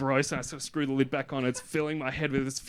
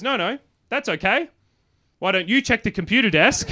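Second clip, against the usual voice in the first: cheerful partner; 9 semitones higher, 7 dB louder than usual. Retold or imitated. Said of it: "She goes".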